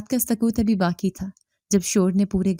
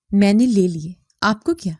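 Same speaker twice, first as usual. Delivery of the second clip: irritated; 4 dB louder than usual. Acted. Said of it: "وہ جھنجھلا کر بولا".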